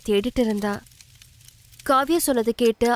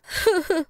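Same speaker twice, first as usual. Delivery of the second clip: sob; 8 semitones higher than usual. Acted. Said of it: "பயங்கரமா அழறா".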